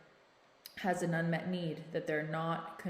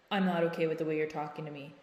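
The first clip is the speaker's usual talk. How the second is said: teacher voice; faster than usual. Shown as a demonstration. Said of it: "it's like teacher voice".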